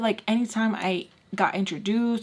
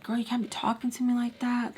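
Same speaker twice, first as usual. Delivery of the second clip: higher, softer whispered scolding imitation; mock whisper; 4 semitones higher, 3 dB quieter than usual. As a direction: hiss his threat back in a whisper. He scolds her, quoting him.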